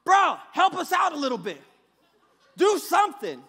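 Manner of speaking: street slang translation. Retold or imitated. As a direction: complain to Jesus like a homeboy. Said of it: "Jose's ghetto translation".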